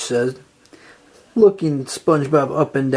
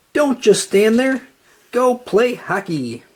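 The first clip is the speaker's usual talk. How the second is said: higher, eager urging, slowing at the end; urgent push; 6 semitones higher than usual. A narrator's reading. Mister Krabs pushing SpongeBob to go play, urgent. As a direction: hurry him out the door.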